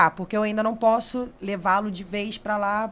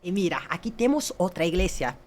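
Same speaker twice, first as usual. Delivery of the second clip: hammed-up tour pitch, building to a loud finish; showy sales pitch; 8 dB louder than usual. New guide showing tourists the poster, showy pitch. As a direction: present each sight, then belt out the finale.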